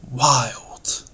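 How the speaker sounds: WILD said with a rush of breath; breath-heavy, expressive WILD; wild word-painting. Shown as a demonstration. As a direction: make WILD sound wild, half whispered. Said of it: "bring out the meaning of the word by its sound".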